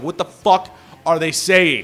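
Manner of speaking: slow, baffled mock complaint; confused complaint. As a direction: drag it out, puzzled. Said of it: "And I'm like".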